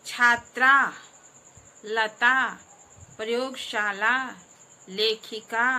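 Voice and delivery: each word called out loud and separate, with pauses; teacher calling out vocabulary, word by word, loud; read aloud for repeating. Shown as a demonstration. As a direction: read the list so pupils can echo each word. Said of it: "जैसे जैसे मैं पढ़ूंगी, आप उसके पीछे पीछे".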